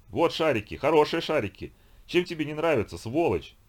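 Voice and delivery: громко и выше, с раздражением; дави на торговца, теряя терпение; злой окрик. Acted. Викинг злится на продавца. (злой громкий окрик)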